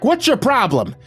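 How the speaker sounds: angry husband hurling blame; enraged yelling. A narrator's reading. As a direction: yell back in a sudden rage. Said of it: "He yelled back".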